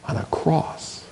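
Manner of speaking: whispered, slow and heavy; hushed. Acted. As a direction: let the words fall to a whisper. Climax of passion account.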